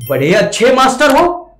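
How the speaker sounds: mocking Yamraj. Teacher voicing Yamraj mocking the ghost, sarcastic. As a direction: taunt the ghost with a forced laugh. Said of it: "देखिए यमराज".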